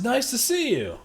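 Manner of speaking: high-pitched, lightly faked Austrian accent; poorly imitated Austrian catchphrase; bad Arnold accent. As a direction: another half-hearted go at an Austrian accent. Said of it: "That was the worst accent ever".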